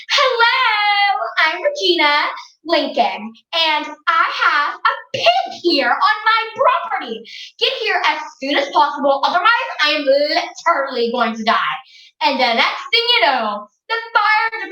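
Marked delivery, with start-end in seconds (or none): 0.1-11.8 shrill panicky complaint to the firemen; a lightly voiced overwrought girl; dramatic phone call. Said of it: "and said".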